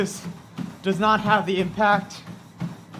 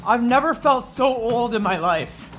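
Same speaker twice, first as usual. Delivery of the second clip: aching, strained complaint; sore muscles; 2 semitones higher than usual. Real, not acted. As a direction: groan it out, stiff and sore. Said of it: "I'm so sore".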